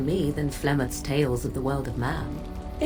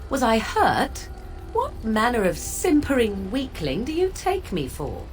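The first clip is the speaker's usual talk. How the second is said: higher-pitched, affronted disbelief; indignant scorn; 5 semitones higher than usual. Acted. Witch rebuffs being taken for a weakling, indignant. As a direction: throw the question back with disdain. Scornful reply to a companion's question.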